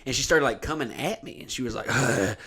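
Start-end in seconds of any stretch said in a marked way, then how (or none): 1.9-2.4 imitated grumble. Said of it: "making these grumbling sounds".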